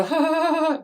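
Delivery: high-pitched imitated ha-ha; mock laughing. People laughing to hide weakness, mock laughing. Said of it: "they laugh. And they go".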